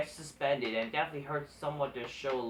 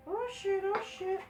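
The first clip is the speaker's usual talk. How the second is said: surprised. Real, not acted. Sudden reaction while eating.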